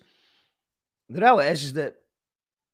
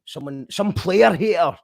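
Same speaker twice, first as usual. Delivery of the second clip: louder, slowed, dismissive of haters; scornful emphasis; 2 semitones higher, 6 dB louder than usual. Real, not acted. Host dismissing critics of her voice, louder scornful emphasis. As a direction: call out the jealous critics.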